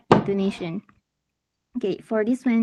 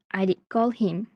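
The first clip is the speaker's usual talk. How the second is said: "him" given the weight in "I did call him"; stress on HIM. Shown as a demonstration. Teacher giving the second example, stress on "him". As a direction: put the emphasis on "him" at the end. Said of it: "it emphasizes the person being called".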